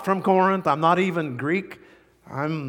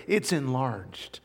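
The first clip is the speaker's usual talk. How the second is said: whisper; 4 semitones lower, 5 dB quieter, slower than usual. Acted. Paul's heart too big.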